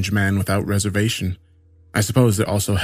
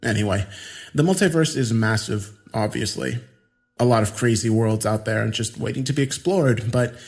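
put-on eccentric young man; 3 semitones higher than usual. Voices Adrian.

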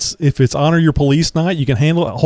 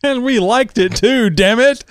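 put-on old man voice; 10 semitones higher than usual. Old-timer joke continues.

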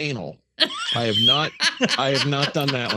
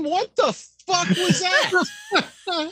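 incredulous; much slower than usual. Real, not acted. Stunned reaction, very high voice.

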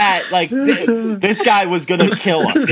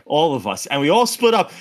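ordinary delivery

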